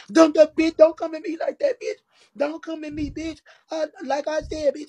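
high, loud angry yelling of insults; retold yell. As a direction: yell it back at her, furious. Retelling Cammy's shouted insults.

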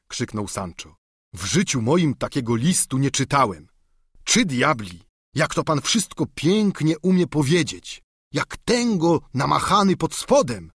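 lightly voiced eager peasant squire; simple squire pleading with his master; Sancho the squire.

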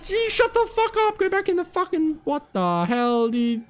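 high-pitched frantic shout at the screen; panicked yell. Real, not acted. Player shrieking at a game monster, high panicked shout.

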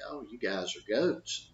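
calm, unforced coach's remark; easygoing, matter-of-fact calm; real calm voice. Acted. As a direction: say it calmly, no yelling. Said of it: "with a real calm voice".

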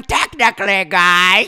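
mock nerdy "technically"; imitating the nerd emoji; nerd emoji impression. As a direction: say it like a know-it-all nerd. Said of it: "Bro sounds like the nerd emoji".

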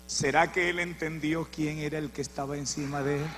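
hushed rhetorical question before the shout; quiet question. Real, not acted. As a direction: ask it almost to yourself. Preacher asks quietly, then repeats.

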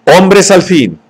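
lifted high, triumphant; exultant cry. A narrator's reading. Savage exulting as Helmholtz fights beside him, triumphant cry. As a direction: crow it out in triumph.

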